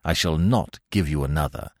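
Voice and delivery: measured warning with mild emphasis; emphatic. A narrator's reading. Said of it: "he said emphatically".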